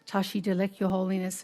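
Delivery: soft, poised greeting; eloquent, composed. Retold or imitated. Journalist greeting His Holiness, eloquent and composed. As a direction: imitate a composed, graceful greeting. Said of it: "And eloquently, she stood there together".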